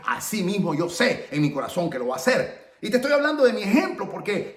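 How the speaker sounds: emphatic declaration of faith; punched, insistent testimony; fervent testimony. Acted. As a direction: preach it with firm conviction. Preaches own testimony of faith.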